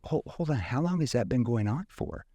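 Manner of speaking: puzzled probing question; confused probe. Shown as a demonstration. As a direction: stop them, sound unsure. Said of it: "See, that's a confused tone".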